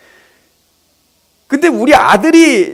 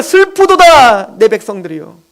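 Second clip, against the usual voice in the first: God crying out to his people, slow and higher; a touch of a grieving cry, rising and louder; lament; 4 semitones higher, 4 dB louder than usual. Acted. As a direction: voice God's anguished lament, building to a loud call. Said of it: "가슴을 찢으며 지금 절규하는 거예요".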